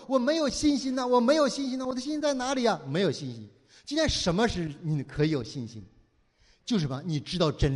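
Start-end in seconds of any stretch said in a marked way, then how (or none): 0.1-2.8 mock whining. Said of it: "有的时候你说".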